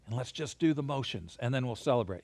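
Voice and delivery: whisper-soft like not waking anyone; quiet teacher cue for kids; super quiet. Shown as a demonstration. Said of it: "So super quiet".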